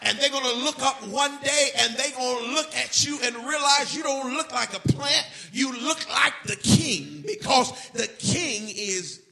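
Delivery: loud, rising gospel preaching; preaching at full force. Acted. Preacher urging the church to praise God anyhow, full force. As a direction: build the congregation up to praise.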